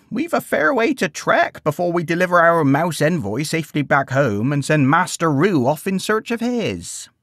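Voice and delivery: a touch of a gentle grandmother rallying the group; Grandma's voice, gently. Acted. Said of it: "she said gently".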